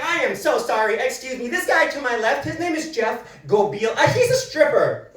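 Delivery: mock indignant, rising toward the end; lightly voiced outraged woman announcing it; indignant lady. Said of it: "she's all indignant".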